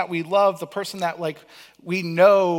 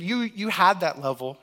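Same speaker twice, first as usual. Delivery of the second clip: ordinary talk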